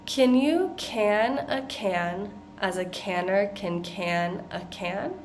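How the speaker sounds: slowly. Shown as a demonstration. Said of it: "I'm going to say this one slowly".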